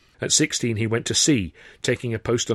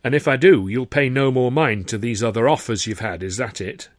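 a touch of dry calculating sarcasm; sarcastic, calculating; 2 semitones higher, 5 dB louder than usual. Acted. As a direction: test him with a knowing edge. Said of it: "sarcastic and rather calculating tone".

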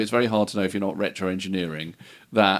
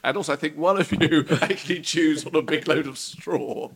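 excited record boss; 4 semitones higher than usual. Pretend.

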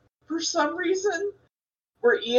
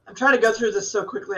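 running out of air; faster than usual. Real, not acted. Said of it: "I'm running out of breath".

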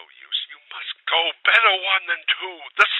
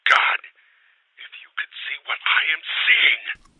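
whispered, then a frightened cry; a trembling whisper breaking into alarm; shaky whisper; 9 semitones higher, 9 dB louder than usual. A narrator's reading. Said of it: "called from below in a shaky whisper".

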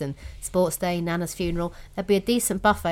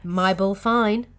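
slow mock Australian accent; much slower than usual. Shown as a demonstration. Co-host echoing the Australian accent hack slowly. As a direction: draw out each word in an attempted Australian twang. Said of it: "So this accent hack".

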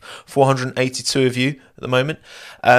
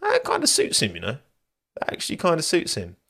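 I was like; 6 semitones higher, 3 dB quieter than usual. Retold or imitated. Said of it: "and I was like".

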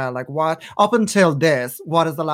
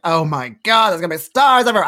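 mock starstruck excitement; 4 dB louder, faster than usual. Retells starstruck first Hollywood trip.

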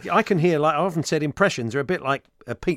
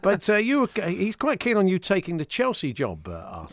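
Arsene Wenger impression; 3 semitones lower, 3 dB louder than usual. Wenger guest interview.

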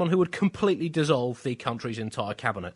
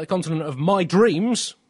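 mock dreamy slogan; 5 semitones higher, 6 dB louder, slower than usual. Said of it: "typed the words Africa, continent of".

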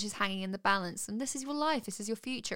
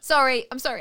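whispering; 4 semitones higher, 7 dB louder than usual. Real, not acted. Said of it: "Bad Miranda".

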